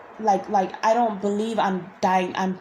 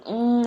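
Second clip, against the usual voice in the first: mock moan; 3 semitones higher than usual. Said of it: "moaning in my ear".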